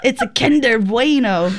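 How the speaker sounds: Kinder Bueno said as in the ad, with a laugh; ad pronunciation. Retold or imitated. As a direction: say Kinder Bueno like the commercial does. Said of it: "They do say it like that in the ad".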